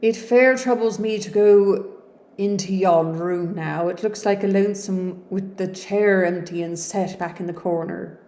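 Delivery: Yorkshire servant. Acted. Grieving servant speaks.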